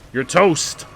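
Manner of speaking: loud, gleeful battle taunt; trash-talk the enemy with glee. Real, not acted.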